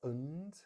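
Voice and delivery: "and" said as weak "und"; reduced form. Shown as a demonstration. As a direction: schwa in "and". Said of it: "we're gonna reduce that".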